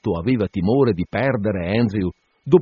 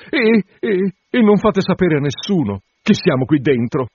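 put-on high, pleading young woman's voice; anxious bride; 9 semitones higher, 3 dB louder than usual. Bride coaxing the curate to wait, high and pleading. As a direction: coax the curate, voice pitched up.

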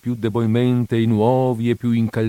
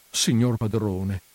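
softer and slow, coaxing; moved, tender voice; 5 dB quieter, slower than usual. Acted. Housekeeper coaxing her master, softly moved. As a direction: soften to win him over. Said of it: "con voce commossa e da commovere".

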